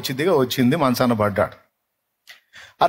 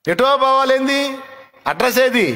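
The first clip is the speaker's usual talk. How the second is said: baffled disbelief; 10 semitones higher than usual. Retold or imitated. Listener baffled by vague answer.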